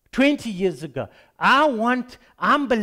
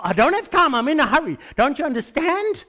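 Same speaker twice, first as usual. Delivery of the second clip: impatient protest; 5 semitones higher than usual. Retold or imitated. Preacher arguing with Jesus, impatient and exasperated. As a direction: whine that you have no time.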